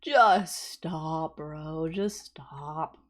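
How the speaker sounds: whispered, pleading to stop; hushed mock plea voicing the girl in court. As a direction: whisper it like begging them to stop. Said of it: "this girl's just like".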